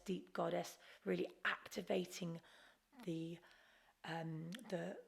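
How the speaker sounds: talking over loud panting breaths; panting like a dog while speaking; lion's breath panting. Real, not acted. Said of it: "begin breath of fire, panting like a dog".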